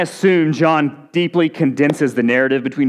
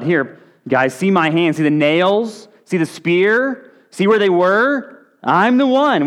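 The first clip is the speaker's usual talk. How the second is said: eager, rising Jesus; 4 semitones higher, slower than usual. Acted. Risen Jesus showing his wounds.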